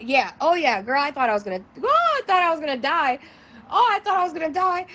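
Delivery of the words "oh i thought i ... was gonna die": high squeal breaking into laughter; laughing exclamation. Real, not acted. Recalling her fright in the trap house, high laughing squeal. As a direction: squeal it out, about to crack up.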